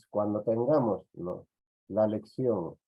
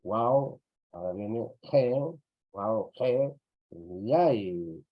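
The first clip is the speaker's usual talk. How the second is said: "wau", "he", "yai" as separate chunks with pauses; teacher dictating "wau", "he", "yai"; syllable-by-syllable demo; slower than usual. Shown as a demonstration. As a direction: sound out "wau, he, yai" piece by piece. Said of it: "entonces rompemos el diptongo".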